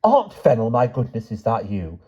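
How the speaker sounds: put-on high, hesitant old lady's voice; timid high-pitched questioning; timid, quavering. A narrator's reading. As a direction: quaver upward in timid disbelief. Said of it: "A timid, quavering voice said".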